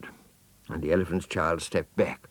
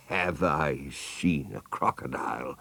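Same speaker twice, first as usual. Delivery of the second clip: scornful python. Acted. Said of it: "in a voice of dreadful scorn".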